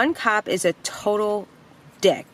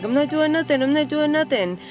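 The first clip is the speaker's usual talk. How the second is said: higher, whiny mock protest of innocence; mock Mike denial; 7 semitones higher than usual. Mike backing away from cops, higher mock denial. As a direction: play him as a high, pleading denier.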